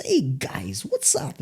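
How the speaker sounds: laid-back MC greeting, soft; imitating Shabir. Casual MC greeting the audience, imitated laid-back style. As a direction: greet the crowd softly and casually. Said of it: "very more laid-back idea of what M C ing was".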